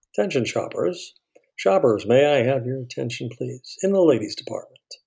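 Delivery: store announcer calling shoppers; sing-song in-store announcement, pitch lifted; over the intercom. Shown as a demonstration. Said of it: "You know, that sort of thing".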